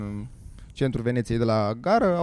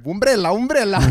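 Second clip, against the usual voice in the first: mock panicked call, a bit louder and higher; retold calling out; 7 semitones higher, 5 dB louder than usual. Retelling a panic on the bus, a mild mock call. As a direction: call for the lost umbrella, half acted. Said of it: "am început să întreb".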